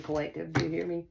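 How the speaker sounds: ordinary delivery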